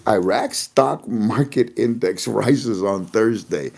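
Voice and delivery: slow, scoffing disbelief at the headline; incredulous reread. Shown as a demonstration. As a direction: reread the headline as if it can't be true. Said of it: "I mean, really?".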